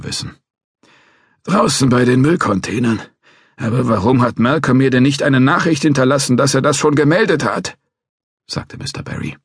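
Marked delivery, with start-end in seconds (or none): 1.4-7.8 put-on a cranky old guard threatening to call police; old watchman.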